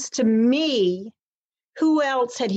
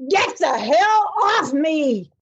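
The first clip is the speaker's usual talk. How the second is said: retold yell; 6 semitones higher, 4 dB louder, slower than usual. Fighting off attacker, retold.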